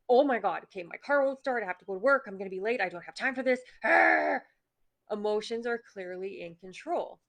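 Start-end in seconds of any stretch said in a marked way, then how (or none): 0.1-3.6 flustered, rushed and a bit louder; mock panic. Stranded driver panicking about being late, mock panic. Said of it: "the emotional response is like". 3.8-4.4 loud high frustrated growl. Pretend. Driver whose car won't start, frustrated growl.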